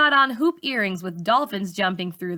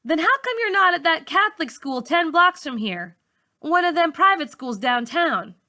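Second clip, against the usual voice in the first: put-on pushy teenage question; 8 semitones higher than usual. A narrator's reading. Malika presses teacher.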